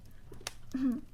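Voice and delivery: wheezy dying grandma wail; grandma catchphrase. Pretend. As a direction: croak it out like a last breath. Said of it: "It sound like I'm dying".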